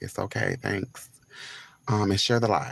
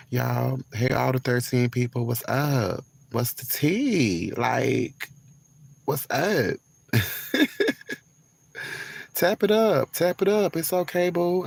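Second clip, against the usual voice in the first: much higher, louder hype; loud excited; 5 semitones higher, 5 dB louder than usual. Real, not acted. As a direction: shout it up to the chat. Shouting greetings, laughing, hype.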